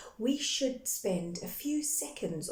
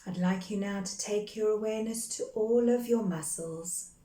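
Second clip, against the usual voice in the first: calm, measured meditation guide with long pauses between phrases; guided meditation. Real, not acted. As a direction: guide them gently into breath and grounding, unhurried. Leads a guided grounding meditation.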